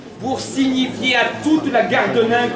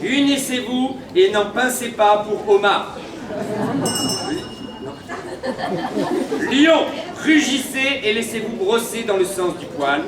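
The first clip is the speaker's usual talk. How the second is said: town crier. Acted. Announcing horoscope messages.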